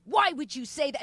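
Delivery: retold anger. Offended widow to the comedian who teased her, retold anger. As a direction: imitate an offended woman confronting the comic. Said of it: "she was fucking angry".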